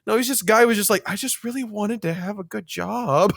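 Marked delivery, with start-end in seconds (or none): 1.1-3.3 poor guy. Retold or imitated. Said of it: "And that poor guy".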